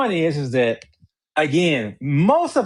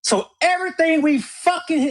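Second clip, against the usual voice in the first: angry; 4 semitones higher than usual. Real, not acted. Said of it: "You angering me".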